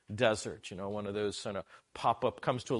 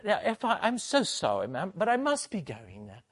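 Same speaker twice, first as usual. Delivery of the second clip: mock polite leave-taking; 8 semitones higher, 4 dB louder than usual. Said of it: "I said".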